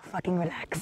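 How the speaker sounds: put-on light Filipino accent, offhand; a hint of Filipino grandma accent. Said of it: "in her fucking Filipino accent".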